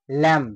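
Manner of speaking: "ল্যাম" with no b after m; silent B. Shown as a demonstration. Teacher giving another silent B example, "ল্যাম" ending on m. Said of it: "বি এর উচ্চারণটা পুরোপুরি বা silent".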